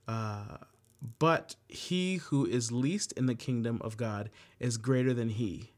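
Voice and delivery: measured, earnest scripture reading. Acted. Leader reading Bible verses to the group, measured and earnest. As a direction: read the verse to the group with gravity.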